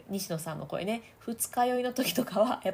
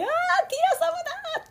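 much higher, louder delighted shriek; excited fan squeal; 5 dB louder than usual. Retold or imitated. Coach imagining a fan screaming Tira's name. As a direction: squeal at seeing your idol. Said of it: "っていうシーンですよね".

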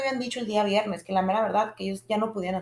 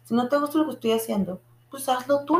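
half-shouted comeback, pitched up; retold yelling at mom; 5 semitones higher than usual. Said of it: "le dije gritando".

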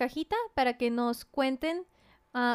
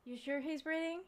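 whispering over a crib; 6 semitones lower, 14 dB quieter than usual. Real, not acted. Baby asleep nearby.

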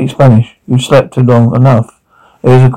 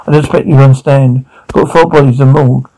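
fast, pressing delivery; rushed; faster than usual. Acted. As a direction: rush it out, cornered and tense. Heated argument between cops.

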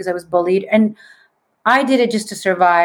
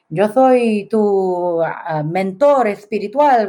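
put-on Spaniard accent; much slower than usual. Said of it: "with this Spaniard accent saying".

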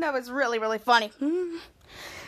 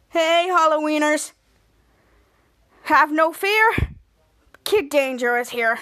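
hero entrance; 3 dB louder than usual. Retold or imitated. Jasper's heroic entrance.

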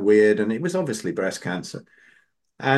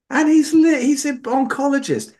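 high-pitched, loud disbelief; real squeal of disbelief; incredulous; 6 dB louder than usual. Real, not acted. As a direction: exclaim it, voice shooting right up. Teller incredulous at doctor's ignorance.

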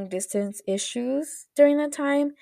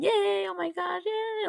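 imitated happy squeal; 11 semitones higher, 4 dB quieter than usual. Retelling him cheering alone in the room, mock squeal. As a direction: squeal a celebration under full volume.

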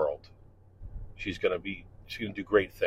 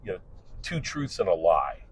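upbeat, louder classroom host voice; mock-enthusiastic teacher opening day; cheery teacher; 4 semitones higher, 3 dB louder than usual. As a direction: greet sixty students like a peppy instructor. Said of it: "when I would say".

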